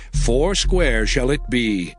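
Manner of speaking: usual speaking voice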